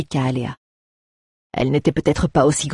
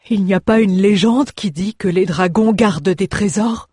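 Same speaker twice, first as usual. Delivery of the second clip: higher, louder curious dwarf; dwarf asking with greedy hope; eager dwarf; 4 semitones higher, 4 dB louder than usual. Acted. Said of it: "Le nain".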